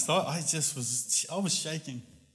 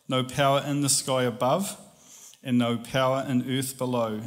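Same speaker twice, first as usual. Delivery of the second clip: steady scripture reading. Acted. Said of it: "my voice just went solid".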